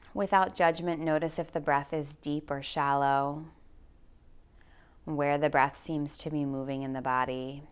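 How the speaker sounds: calm, measured guide voice with long pauses; guided meditation. Acted. Yoga teacher guiding listeners through anxiety, in guided meditation voice. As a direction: lead them slowly into grounding, leaving space for breath.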